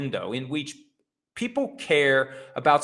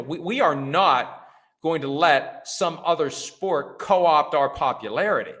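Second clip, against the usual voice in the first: firm league refusal; 2 semitones higher than usual. Acted. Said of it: "I say to Tyreek Hill".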